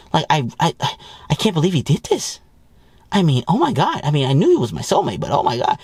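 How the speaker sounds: lightly voiced gushing wife. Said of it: "all they hear about is good news".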